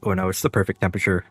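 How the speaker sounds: talking between sips of hot tea; sipping hot tea. Real, not acted. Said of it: "Let me, let me take a sip".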